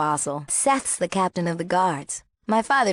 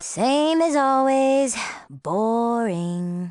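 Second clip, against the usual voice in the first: bored; 4 semitones higher, much slower than usual. Acted. Bored girl grumbles about town.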